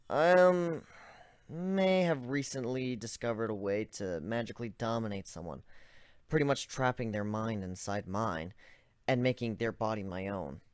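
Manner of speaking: hesitant, halting confession; nervous. Acted. Narrator nervously confessing dark magic to the zebra, hesitant. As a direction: admit it haltingly, unsure how he'll react. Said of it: "I said this nervously".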